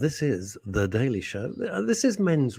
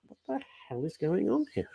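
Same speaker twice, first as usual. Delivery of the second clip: mock bewildered outburst; 8 semitones higher, 7 dB quieter than usual. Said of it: "it's like".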